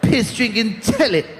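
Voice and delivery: growling toilet monster rant, pitch jumping; pee noise voice. Pretend. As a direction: snarl insults like a strange creature while peeing. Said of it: "that's the noise I make when I pee".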